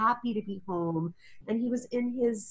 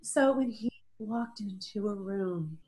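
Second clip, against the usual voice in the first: recovering from real tears, halting; tearful; 3 semitones higher than usual. Real, not acted. Mother describing her son's visit, tearful and moved. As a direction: gather yourself and speak through emotion. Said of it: "I'm gonna cry again".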